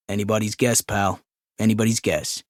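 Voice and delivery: office worker voice. Acted. Office man voiced in story.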